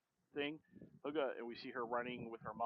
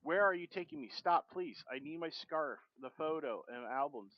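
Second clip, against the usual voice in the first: mild panicked plea; 3 semitones higher, 4 dB louder than usual. Acted. Mother begging the daughter to stop wheeling her away, mild panic. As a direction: plead to be left alone. Mother protests being moved.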